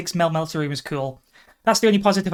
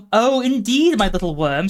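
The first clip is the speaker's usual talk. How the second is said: menacing figure; 4 semitones higher, 3 dB louder than usual. Acted. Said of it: "said the approaching figure".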